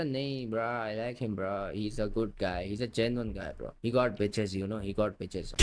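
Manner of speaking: laid-back imitated English-accent bro talk; put-on English accent. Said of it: "वो English accent झाड़ने की कोशिश करता था".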